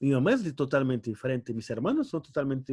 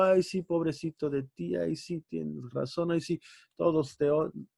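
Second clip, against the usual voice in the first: softer mock-coddling sympathy; mock pity; 3 dB quieter than usual. Pastor mocking how he'd coddle a youth, mock pity. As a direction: coo fake sympathy to a sulky kid. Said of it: "Si yo les hablo".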